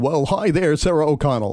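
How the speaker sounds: lightly hammed-up sixties radio DJ greeting; AM disc jockey voice. Radio host playfully greets his co-host, in disc jockey voice. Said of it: "use my A M disc jockey voice".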